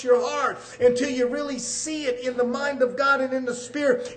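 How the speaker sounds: fervent sermon delivery; preaching. Real, not acted. Preacher driving the word into hearts, fervent preaching. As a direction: press each phrase home to the congregation.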